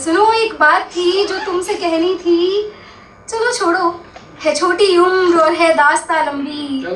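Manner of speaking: lilting mushaira delivery, building to the refrain; expressive ghazal recital; poetry recitation. Acted. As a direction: recite to the crowd, lines held up before a falling refrain. Recites poem again for audience.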